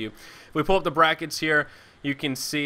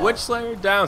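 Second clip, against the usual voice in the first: excited; 8 semitones higher, 4 dB louder, slower than usual. Real, not acted. Echoing the kill call.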